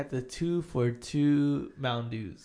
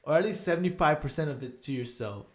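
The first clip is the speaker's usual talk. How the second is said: loud; 4 semitones higher, 4 dB louder than usual. Retold or imitated. Telling buddy to smoke it.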